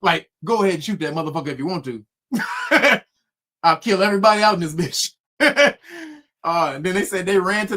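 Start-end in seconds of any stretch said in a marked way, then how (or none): 0.4-5.1 daring taunt. Retold or imitated. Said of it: "dared them motherfuckers to shoot".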